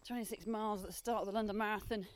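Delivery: talking mid-run; a bit breathless while running; while jogging. Real, not acted. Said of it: "time to run again".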